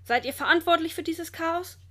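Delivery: a touch of furious accusation; angry scolding. A narrator's reading. Zoo director confronts the intruders, angry scolding. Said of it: "schimpft er wütend".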